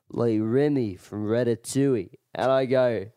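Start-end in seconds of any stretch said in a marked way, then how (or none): 0.1-2.1 lightly imitated drunk Irishman; a touch of Irish, insistent; Irish accent. Drunk Irishman repeating himself to a stranger, light Irish accent. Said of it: "And he goes".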